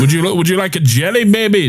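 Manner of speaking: alien voice. Acted. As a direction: offer it sweetly, alien style. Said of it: "See if you can recognize the alien".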